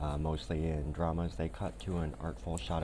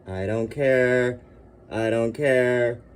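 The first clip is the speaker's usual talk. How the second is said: slow, loud, swooning delight; giddy gushing; 4 semitones higher, 10 dB louder, slower than usual. Real, not acted. Swooning over the badges, slow and loud. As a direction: drag it out, overcome with joy.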